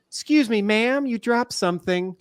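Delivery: high, drawn-out mock call-out; really loud call. Prankster to lady hurrying through airport, loud imitated call. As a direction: imitate hailing a stranger across a hallway, slow and high. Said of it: "like, really loud".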